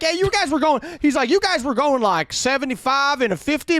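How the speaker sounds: relaxed officer warning; easygoing cop. Retold or imitated. Imitating the cop.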